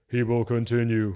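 lightly stilted mock delivery; a hint of wooden superhero; badly delivered Batman. Reviewer quoting Batman's answer to Joker, lightly stilted. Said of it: "just terrible".

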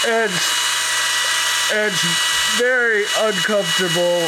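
high, strained panic; panicked, high and loud. Real, not acted. Nose rinse, panicked.

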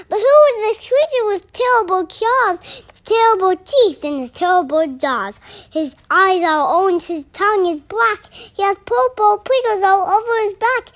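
high, loud, excited recital; alarmed exclamation. Acted. Mouse suddenly faces the creature, loud alarmed exclamation. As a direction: reel it off loudly in alarm.

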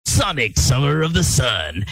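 announcer voice. Retold or imitated. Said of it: "you have a voice of summer".

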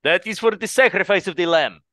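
lightly voiced train conductor, somber; a hint of a storybook narrator. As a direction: intone it like a kids' show narrator. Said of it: "You sounded so much like the conductor".

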